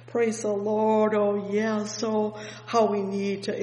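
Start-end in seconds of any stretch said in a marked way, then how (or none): none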